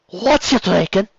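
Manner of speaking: high, slow Cockney barmaid; drawn-out Cockney barmaid asking your order; female Cockney accent. Acted. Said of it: "do a female Cockney accent".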